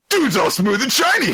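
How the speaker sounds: high, loud squawking exclamation; high-pitched mock amazement; mock monkey. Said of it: "Which monkey tribe?".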